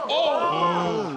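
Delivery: sudden sharp oh; startled yelp at the hit; surprised. Real, not acted. Commentator reacts to knee strike.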